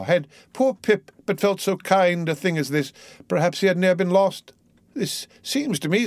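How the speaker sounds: put-on high-pitched, pleading ship's boy; cling to the captain with a lifted, lilting voice; tender, crazed Pip. A narrator's reading. Pip will not let Ahab's hand go, tender.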